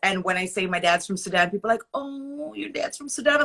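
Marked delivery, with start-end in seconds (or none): 1.9-3.4 higher-pitched imitation of a pitying "oh"; put-on high, sorry-for-you voice; mock pity. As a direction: mimic someone's dismayed sympathy. Retold pitying reaction to her background.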